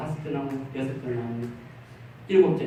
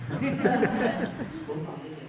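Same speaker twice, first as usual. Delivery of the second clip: laughing concession; 4 semitones higher, 6 dB quieter, much slower than usual. Retold or imitated. Deaconess reluctantly conceding, laughing.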